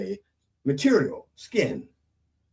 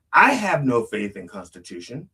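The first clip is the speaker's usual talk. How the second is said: emphatic "I" at the start; stress on I; 2 semitones lower than usual. Shown as a demonstration. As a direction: lean on "I", then let the pitch drop. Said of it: "Depending on what pronoun you plug in".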